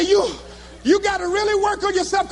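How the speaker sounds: high, comic near-tears preaching; heartbroken speechifying. Retold or imitated. Dumped speaker back before cheering crowd, heartbroken. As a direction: push the speech out through mock heartbreak.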